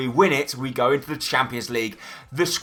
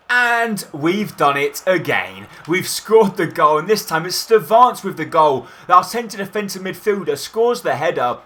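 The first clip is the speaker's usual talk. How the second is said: louder, slow, savoured goal call; goal celebration; 2 semitones higher, 4 dB louder than usual. Acted. Commentator celebrating the second goal, loud and slow.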